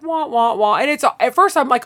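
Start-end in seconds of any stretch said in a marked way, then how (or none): 0.0-0.8 higher, hammed-up fake wailing; mock crying. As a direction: whine it like a sulking child. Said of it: "And it's all like".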